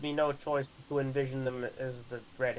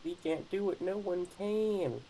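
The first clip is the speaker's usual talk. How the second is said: imitating the cheer; 6 semitones higher than usual. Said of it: "Why did they say it like that?".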